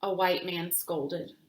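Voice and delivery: put-on gentle storytelling voice for children; reading a picture book aloud. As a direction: read it like story time, clear and calm.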